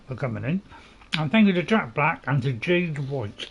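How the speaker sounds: talking while crunching chips; chewing crisps between words. Real, not acted. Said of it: "Sorry about the crunching".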